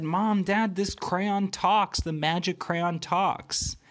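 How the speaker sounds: put-on high, slow amazed little girl; excited child. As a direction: call out to mom and dad in wonder. Lila calls parents, amazed.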